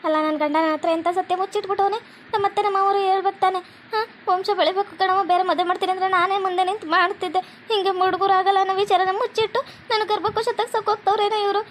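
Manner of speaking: acted crying, hurt and betrayed; tearful lament. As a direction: lament the betrayal through mild tears. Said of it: "ಯಾಕೆ ಜಲಜೆ ಈ ಚಂದ ಅಳ್ಕೊಂಡ್ ಕೂತಿ".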